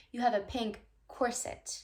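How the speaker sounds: "corset" as COR-sit; weight on the start of "corset", soft i after; correcting "corset" to COR-sit; stress on first syllable. Retold or imitated. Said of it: "Putting the emphasis on the first syllable".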